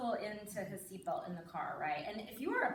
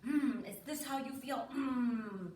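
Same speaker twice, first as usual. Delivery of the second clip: mock-frustrated question between grunts; put-on frustrated; slower than usual. Parent acting frustration for son, mildly hammed-up. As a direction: grunt and act a touch exasperated. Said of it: "put on my best frustrated".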